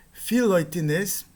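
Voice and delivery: filoitinês said slowly with each syllable clear; careful Greek demo. Shown as a demonstration. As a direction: model filoitinês slowly for students. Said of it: "Outro exemplo". (filoitinês pronunciado devagar)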